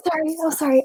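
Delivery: softly spoken Canadian apology; apologetic Canadian. Acted. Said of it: "can you tell I'm Canadian? I'm just like".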